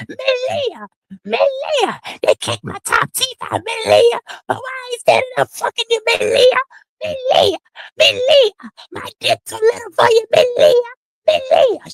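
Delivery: very high squeaky mock voice, pleading; high falsetto mockery of a groveling man; mocking whiny impression. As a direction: whine her name like a pathetic man begging.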